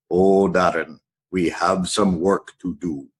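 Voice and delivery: put-on a light Jamaican accent, a bit low; the speaker's Jamaican accent. The Jamaican coach breaking bad news to Darren, lightly voiced Jamaican accent. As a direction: lightly voice the Jamaican coach, letting him down gently. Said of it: "is that his accent?".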